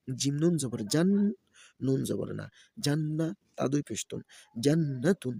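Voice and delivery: sing-song letter-by-letter chant; Quran-primer teacher's recitation; spelling drill recitation. Shown as a demonstration. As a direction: spell each syllable, then lift the joined word. Spells out Arabic syllables for learners.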